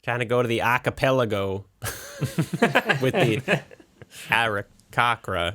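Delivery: put-on slow, broad Boston accent. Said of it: "I think you nailed it".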